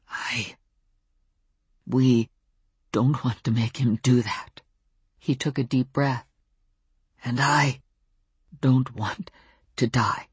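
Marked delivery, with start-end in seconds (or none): 0.1-4.6 halting, Welsh-tinged wolf with long pauses; slow Welsh intonation. A narrator's reading. Wolf explaining himself to the narrator, slow Welsh intonation. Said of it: "his voice slow and thick with Welsh intonation". 7.2-10.3 halting, Welsh-tinged wolf with long pauses; slow Welsh intonation. A narrator's reading. Wolf explaining himself to the narrator, slow Welsh intonation. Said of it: "his voice slow and thick with Welsh intonation".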